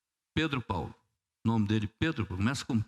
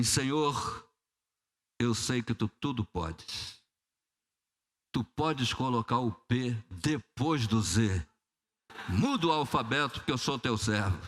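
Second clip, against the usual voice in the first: crente apavorado; 3 semitones lower than usual. Acted. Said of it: "oração do crente apavorado".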